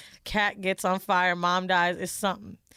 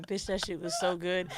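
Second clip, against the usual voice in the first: normal talking voice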